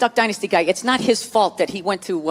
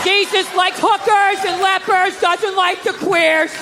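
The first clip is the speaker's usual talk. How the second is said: brainwashed recital; 8 semitones higher, slower than usual. Retold or imitated. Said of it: "stands up like the Manchurian Candidate".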